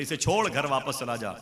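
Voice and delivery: acted master's firm dismissal; urgent command. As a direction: brush off the objection and send him home. Master orders disciple home.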